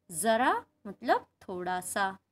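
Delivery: ज़रा said slowly with a buzzing z; slow contrast, z in ज़रा; z sound. Shown as a demonstration. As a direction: nukta z. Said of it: "केवल एकमात्र बिंदु लगाने".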